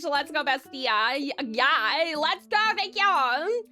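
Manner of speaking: put-on Valley Girl. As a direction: gush like a hammed-up Valley Girl bestie. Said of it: "Thank you for the Valley Girl voice badge".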